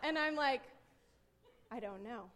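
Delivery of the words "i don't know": low, soft, brushing it off; muted retold reply. Mom busy cooking, answering daughter quietly. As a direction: answer under your voice, lowered. Terse answer while stewing.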